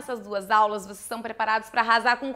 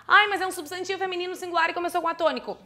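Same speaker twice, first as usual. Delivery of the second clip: mock student; 5 semitones higher, much faster than usual. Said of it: "tu não vai botar Elana".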